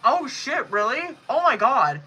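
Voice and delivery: talking with a tissue in one nostril; one nostril plugged with tissue. Real, not acted. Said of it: "left the tissue in my nose".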